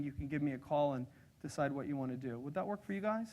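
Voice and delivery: calm, unhurried and respectful; polite planner approach. Shown as a demonstration. Demonstrating a visit to a planner's office, soft and courteous. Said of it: "How am I doing?".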